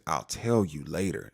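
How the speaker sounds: low deliberate I'll tell you later; stern mama. Retold or imitated. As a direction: shut it down like a mother. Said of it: "She gave him that mama look".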